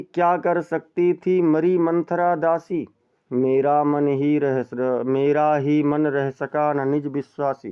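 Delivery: slow, drawn-out verse reading; poem recitation. Shown as a demonstration. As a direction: savour each word of the verse. (धीमा काव्य पाठ)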